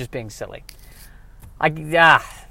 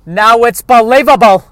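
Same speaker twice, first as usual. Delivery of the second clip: high, loud, slow mock-amazed punchline; comic doing a loud dopey voice; Brian Regan impression; 7 semitones higher, 10 dB louder than usual. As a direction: stretch it out like a goofy comic. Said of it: "I'm turning into Brian Regan there".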